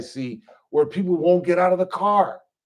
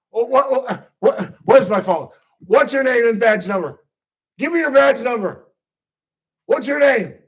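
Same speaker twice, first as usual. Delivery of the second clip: indignant arrestee; 4 semitones higher, 4 dB louder than usual. Retold or imitated. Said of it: "Number seven".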